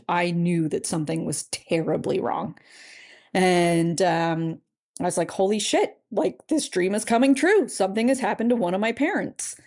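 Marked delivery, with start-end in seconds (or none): 5.3-9.6 rising alarmed voice, higher; panicked. Retold or imitated. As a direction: gasp it out in dawning panic. Panicked realization of dream coming true.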